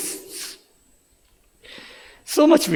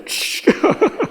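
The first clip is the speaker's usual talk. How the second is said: high, hissing mock sob burst; cartoon sobbing; 14 semitones higher, 3 dB louder than usual. Preacher showing how he sobbed that night, cartoon sobbing. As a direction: spurt out tears like a cartoon character. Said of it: "you know, cartoon character".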